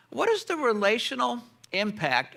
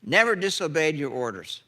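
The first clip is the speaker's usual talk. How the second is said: slow, louder, resentful complaint; outraged brother; 2 semitones higher, 3 dB louder than usual. Retold or imitated. Older brother to father, outraged and slow. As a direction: lean on each word like an aggrieved son. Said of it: "You hear his outrage?".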